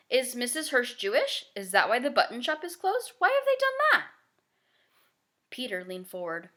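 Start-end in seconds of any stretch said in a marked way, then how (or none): 0.1-4.1 put-on high girlish voice, rising in alarm; a child who can't understand the news; girl pleading with her parents, high and alarmed; worried young girl. Child voice questioning.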